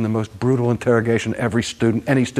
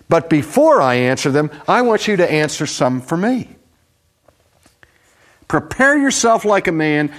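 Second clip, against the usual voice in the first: God's challenge; 6 semitones higher than usual. Acted. God challenging Job.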